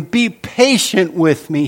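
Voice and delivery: a touch of pleading in the servant's voice; mild begging. Retold or imitated. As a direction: plead lightly, as the servant on his knees. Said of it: "he begged".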